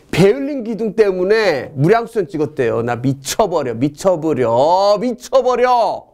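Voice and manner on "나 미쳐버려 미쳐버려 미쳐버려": each repeat more drawn out, rising into a mock wail; hammed-up frenzy. Teacher goes crazy over his own memory tip, hammed-up frenzy.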